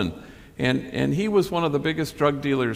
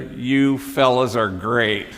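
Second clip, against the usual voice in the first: gushing tourist; 5 dB louder, much slower than usual. Retold or imitated. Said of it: "they see the homies".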